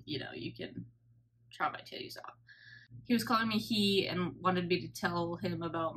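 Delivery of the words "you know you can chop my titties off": whispered. Retold or imitated. Retold cheeky quip to surgeon.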